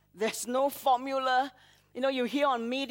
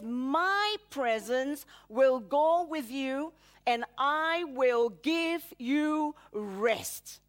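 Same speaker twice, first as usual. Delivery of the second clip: slow solemn promise; slower than usual. Retold or imitated. God's promise quoted again.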